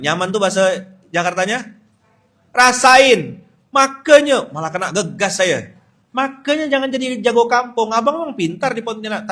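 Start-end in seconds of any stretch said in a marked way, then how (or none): 2.5-4.5 loud, high told-you-so; mother's scolding. Retold or imitated. Mama answering her homesick son, loud imitated scolding. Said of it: "Apa kata Wawa?". 6.1-9.3 high, louder imitated scolding; mother's lecture. Mama lecturing her boy on the phone, high mock scolding. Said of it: "Apa kata Wawa?".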